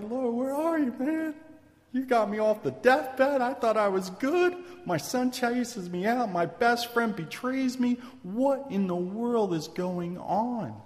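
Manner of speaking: high, acted plea to God; distressed complaint to the Lord, acted; crying out. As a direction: plead in exasperation, pitched well up. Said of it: "He's crying".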